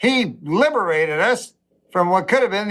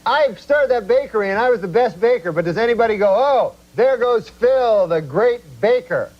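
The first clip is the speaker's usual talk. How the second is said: put-on quoting old friend; 4 semitones higher than usual. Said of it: "he goes".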